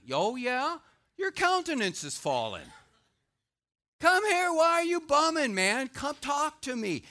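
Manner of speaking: loud, high pleading call; God's urgent call. Acted. God calling out to sulking Cain, loud and urgent. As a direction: call him over, urging him to talk. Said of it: "That's what God is saying".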